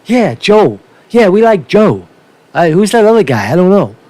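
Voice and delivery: senile nursing home voter. Retold or imitated. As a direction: play a confused old resident answering a pollster. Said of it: "and they said".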